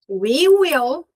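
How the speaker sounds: "We will" with a siren-like rising "will". Shown as a demonstration. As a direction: let "will" swoop up like a siren. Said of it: "Aqui virou uma sirene".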